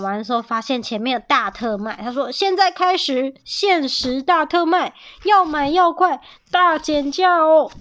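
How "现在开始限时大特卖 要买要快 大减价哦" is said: sale announcer. Acted. Store announces flash sale.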